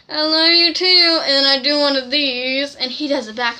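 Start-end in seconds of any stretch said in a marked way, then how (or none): 0.1-1.2 excited. Retold or imitated. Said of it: "I'm like".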